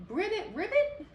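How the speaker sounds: very high, loud double croak; excited frog croaking; eager croaks. Acted. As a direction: croak wildly for cake.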